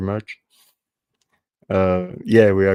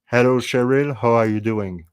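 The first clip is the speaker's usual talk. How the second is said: careful English with the French accent toned down; without French accent; 3 semitones higher than usual. Shown as a demonstration. Host showing Cheryl a greeting for fun, without French accent. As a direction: pronounce the H, playing down the French accent. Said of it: "Without accent in French".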